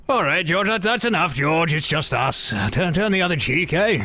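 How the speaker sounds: high-pitched, excitable character voice; high character voice calming a friend; talking head Regis. Acted. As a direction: pipe up in a high, hurried voice.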